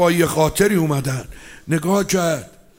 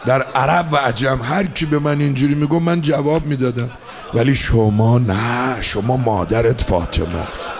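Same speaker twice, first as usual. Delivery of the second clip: much lower, subdued voice of a chastened warrior; Hurr's humble answer; 6 semitones lower than usual. Acted. Hurr humbly answers Hossein.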